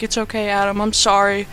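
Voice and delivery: soft, lightly acted comfort; tender consoling. Amanda pets dying Adam's face, soft mock tenderness. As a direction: soothe gently, a touch apologetic. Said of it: "she, like, pets his face".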